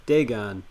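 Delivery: "Dagon" with long A, full -on; both syllables of "Dagon" given full vowels; Dagon as DAY-gon. Shown as a demonstration. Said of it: "I don't think Dagon".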